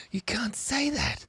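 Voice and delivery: high, hushed whisper of mock shock; scandalized whisper. To the chat, a mock-scandalized whisper. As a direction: whisper it like it's naughty.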